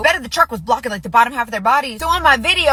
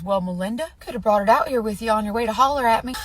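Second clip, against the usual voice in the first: lower, calm matter-of-fact comeback; 4 semitones lower, 4 dB quieter than usual. Retold or imitated. Husband answering his hollering wife, calm and matter-of-fact. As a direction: imitate an unruffled husband, a little low. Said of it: "so matter of fact and so calmly".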